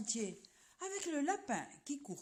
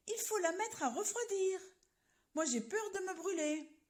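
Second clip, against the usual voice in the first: put-on old man fretting; 6 semitones higher than usual. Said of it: "crie le vieux".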